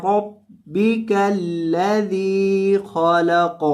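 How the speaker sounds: slow chanted recitation; Quranic recitation. Shown as a demonstration. Teacher modelling the verse for students, chanted slowly. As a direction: draw the verse out melodically. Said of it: "تلاوت کے انداز میں پڑھنا".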